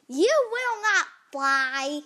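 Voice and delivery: loud, slow, drawn-out denial; emphatic refusal. Acted. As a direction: spell it out slowly and forcefully. Gerald forbids Piggy to fly.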